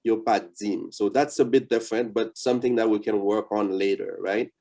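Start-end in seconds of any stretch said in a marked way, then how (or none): 0.0-0.9 DIM with the tongue touching the teeth, near dzim; Creole soft D. Shown as a demonstration. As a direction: Yo pa dim with D softened before i. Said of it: "the tongue comes out of your mouth".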